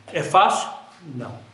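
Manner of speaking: ordinary delivery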